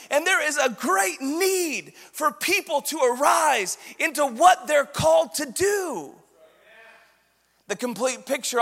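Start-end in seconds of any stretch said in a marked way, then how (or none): 0.1-6.1 rally the troops from the pulpit; rousing preaching. Acted. Rallying call to arise.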